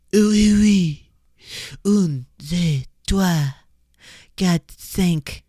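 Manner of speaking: hammed-up French caricature; mock French accent. Podcaster mocking French as unromantic, mock French accent. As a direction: make fun of spoken French with a silly French accent.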